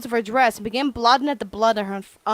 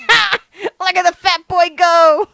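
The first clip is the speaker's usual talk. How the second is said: barked laugh; 5 semitones higher, 7 dB louder than usual. Acted. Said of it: "barked out a single laugh".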